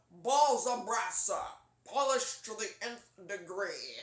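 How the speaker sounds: loud, slow, overblown British officer voice; too pompous British. Shown as a demonstration. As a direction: boom it out slowly in pompous British. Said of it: "the too pompous British voice".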